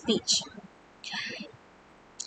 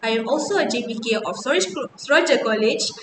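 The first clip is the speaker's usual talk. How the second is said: formal campaign speech; faster than usual. Acted. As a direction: speak to fellow students like a candidate. Delivers her campaign speech.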